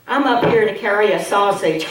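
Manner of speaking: laughing. Shown as a demonstration. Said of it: "I did not do this".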